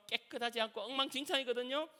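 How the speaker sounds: ordinary delivery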